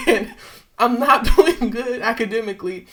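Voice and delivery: laughing through it. Real, not acted. Laughing at the absurd claim.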